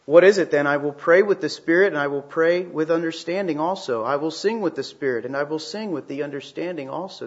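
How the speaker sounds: loud, proclaimed opening that settles down; scripture reading. Acted. Pastor reading First Corinthians to the congregation, proclaiming. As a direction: read the verse out like a proclamation.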